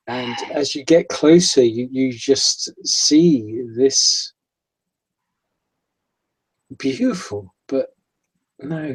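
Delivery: suspenseful GM narration building dread; game master's scene setting. Acted. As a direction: draw the players into a creepy boat hold. GM sets the eerie scene.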